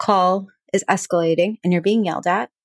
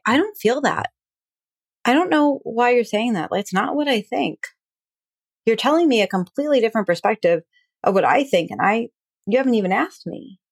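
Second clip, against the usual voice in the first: higher, protesting defensive reply; getting defensive; 4 semitones higher than usual. Shown as a demonstration. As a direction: push back, hurt and defensive. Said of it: "Instead of getting defensive".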